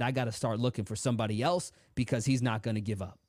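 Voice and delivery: low, unvoiced scheming whisper; devil whisper. The devil giving up on the boy, whispered aside. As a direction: let the devil hiss his defeat.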